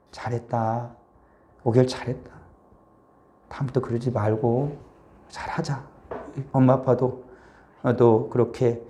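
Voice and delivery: put-on softly forgiving parent welcoming child home; tender parent welcome. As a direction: gently welcome the runaway home.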